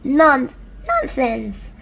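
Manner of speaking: slow, loud scoff; ladybird voice. Acted. Ladybird brushing off the earthworm, slow scoff. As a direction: dismiss it slowly.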